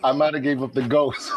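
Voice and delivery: amused reply with laughter creeping in; laughing. Real, not acted. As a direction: joke it as the laugh starts. Joking answer while both laugh.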